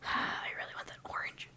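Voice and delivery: very soft, whispery sigh; wistful sigh. Real, not acted. Painter longs for the orange paint, wistful whisper. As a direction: sigh it under your breath, longingly. Sighing to self while painting.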